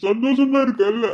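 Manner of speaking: put-on a drunk man weeping over lost love, crying; crying lament. Drunk man crying about life.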